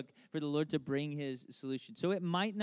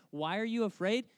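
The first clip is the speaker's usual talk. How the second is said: higher, mock-baffled question; incredulous echo; 6 semitones higher, 4 dB louder than usual. Preacher echoes Jesus' strange rebuke to disciples, incredulous. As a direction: throw the question back in disbelief. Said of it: "how strange is that?".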